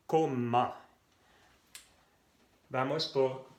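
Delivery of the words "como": "como" lido como o francês comment, /kɔmɑ̃/; French comment. Shown as a demonstration. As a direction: diga "como" com o final nasal /ɑ̃/. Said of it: "Se pronuncia en".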